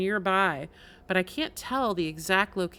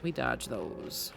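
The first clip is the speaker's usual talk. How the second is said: much lower, slow and deliberate; mock deep voice; 8 semitones lower, 11 dB quieter, slower than usual. Streamer to chat about spikes, in a slow mock-deep voice. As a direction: intone it like a grave commander. Mock-solemn game instruction.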